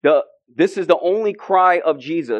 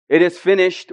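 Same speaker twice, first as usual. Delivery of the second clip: triumphant cry; 2 semitones higher than usual. Retold or imitated. Preacher voicing Jesus' cry, triumphant. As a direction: cry it out like a victory. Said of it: "was his cry".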